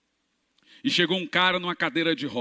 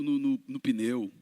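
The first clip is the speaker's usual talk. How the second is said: normal talking voice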